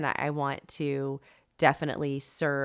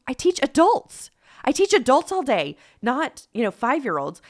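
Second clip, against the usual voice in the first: high, louder, rushed pleading; panicked protest; 9 semitones higher, 5 dB louder than usual. Retold or imitated. Mom protesting to the co-op mom, panicked and high. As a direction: squeak out the objection like a cornered mouse.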